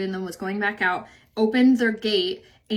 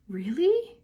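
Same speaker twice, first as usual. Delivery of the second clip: sharp gasp then a higher Really; gasp of surprise; 4 semitones higher, 3 dB quieter than usual. Real, not acted. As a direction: caught off guard by a good tip. Reacting to guinea fowl tip.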